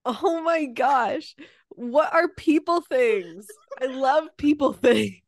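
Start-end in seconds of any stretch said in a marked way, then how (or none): 3.8-5.2 whisper. Pretend. Joking about misheard phrase.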